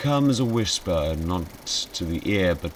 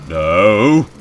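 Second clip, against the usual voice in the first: loud no; 2 semitones higher, 11 dB louder than usual. Real, not acted. Scared refusal.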